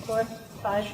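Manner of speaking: counting cpr compressions. Real, not acted.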